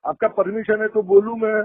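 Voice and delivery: sarcastic question, voice lifted high. Real, not acted. Recovery agent to borrower, sarcastic request for permission. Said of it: "tone high करके sarcasm use".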